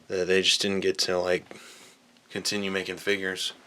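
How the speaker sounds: out of breath while reaching; puffing, short on breath from stretching. Real, not acted. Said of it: "sorry if I'm out of breath".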